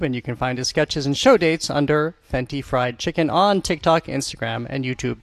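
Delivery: smooth scripted radio credit read; radio host sign-off read. Real, not acted. Host tells listeners where to find the guest, scripted radio read.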